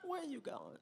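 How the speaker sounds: high, loud catcall to a man; loud catcalling woman. Retold or imitated. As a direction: holler at him across the park. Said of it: "she's like".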